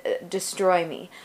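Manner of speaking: ordinary talk, nothing marked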